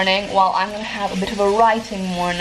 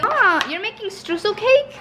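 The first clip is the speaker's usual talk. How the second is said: surprised; 12 semitones higher than usual. Real, not acted. Sister making cake surprise.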